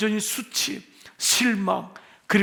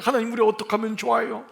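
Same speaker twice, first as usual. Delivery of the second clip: crying out to God; 4 semitones higher, faster than usual. Retold or imitated. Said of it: "하나님께 울부짖는 거예요".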